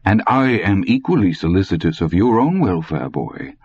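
put-on lightly accented old man, veiled threat; a hint of an old German warning; menacing old German. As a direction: threaten politely.

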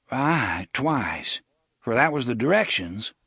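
resigned. Acted. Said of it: "in a resigned voice".

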